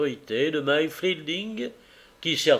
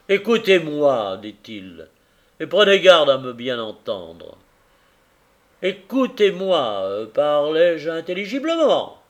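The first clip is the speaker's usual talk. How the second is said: firm, louder warning; stern carrier; 6 dB louder than usual. Acted. Carrier shakes Tackleton by the collar, stern. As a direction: make him listen.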